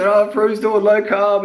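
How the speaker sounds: high, drawn-out mock gossip voice; put-on high voice for doubters; mocking naysayers. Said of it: "And people say".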